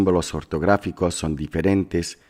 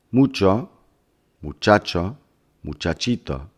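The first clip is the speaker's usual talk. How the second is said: "Mucho" stressed on MU, "muchacho" on CHA, "muchachito" on TI, each stressed syllable pushed out clearly; stress demo. Shown as a demonstration. Teacher comparing stress in three words for students, with marked stressed syllables. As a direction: say "Mucho, muchacho, muchachito" as a list, hitting MU, then CHA, then TI so the stress shifts right. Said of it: "Compare los acentos fonéticos en las tres palabras".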